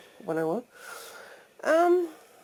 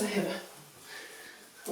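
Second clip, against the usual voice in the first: words round a toothbrush; while brushing teeth; 11 dB quieter, much slower than usual. Real, not acted. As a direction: mouth full while brushing. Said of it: "Please excuse the toothbrushing noises".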